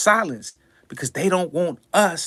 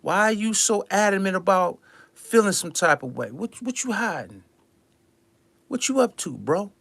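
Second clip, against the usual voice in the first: hushed suspicious quote; 5 dB quieter than usual. Shown as a demonstration. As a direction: mutter it like you're onto them.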